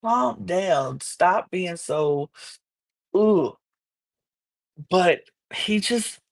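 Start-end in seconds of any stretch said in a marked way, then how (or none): 0.0-3.6 exasperated calm-down. Retold or imitated. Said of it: "she just, like".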